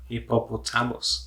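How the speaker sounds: slow Filipino-accented Hippopotamus. Shown as a demonstration. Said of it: "pronounce the word in Filipino accent".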